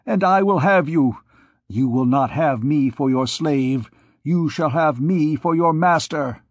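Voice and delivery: put-on a possessive priest claiming the girl; furious priest. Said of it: "with fury".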